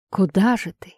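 menacing whisper. Acted. Maniac taunts fleeing victim. (зловещий шёпот)

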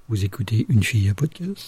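soft sultry radio announcer; suave voice. Pretend. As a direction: purr it like a late-night host. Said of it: "Avec une voix suave".

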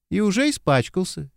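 cheerful tease. A narrator's reading. Girl teasing the dirty lieutenant, cheerful. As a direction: tease him brightly. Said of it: "весело перебила девушка".

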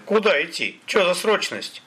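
high-pitched protesting questions; indignant exclamation. A narrator's reading. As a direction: demand an answer in disbelief. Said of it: "воскликнул Олег".

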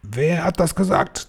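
high, restrained, menacing hiss. A narrator's reading. Grand High Witch hunting the objector, high menacing hiss. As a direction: hiss the question without raising volume. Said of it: "zischte sie".

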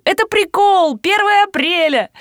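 high calling after her. Retold or imitated. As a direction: shout after someone running off. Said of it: "кричу".

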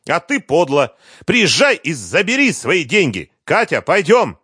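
high, loud furious comeback; angry retort. A narrator's reading. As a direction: snap back and call the girl, loud and high. Liza shouting, leaving.

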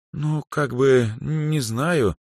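a hint of a flustered young woman; hesitant. A narrator's reading. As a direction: stumble shyly over the words. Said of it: "замялась Даяна".

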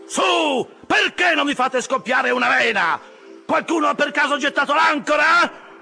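high-pitched, exasperated yelling at the crew; goading shout. A narrator's reading. Officer egging on his rowers in a chase, high loud shouting. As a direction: goad the rowers at the top of your voice. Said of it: "gridava intanto Stabbe al suo equipaggio".

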